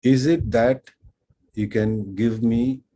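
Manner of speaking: carefully assembled learner question, drawn out at the end; halting learner's question. Retold or imitated. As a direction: re-enact your earnest, clumsy first attempt. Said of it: "and I asked".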